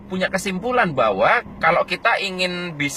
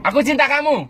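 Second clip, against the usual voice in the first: much higher "Aku cinta kamu"; 9 semitones higher than usual. Shown as a demonstration. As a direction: sing out "Aku" up high. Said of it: "Nada tinggi".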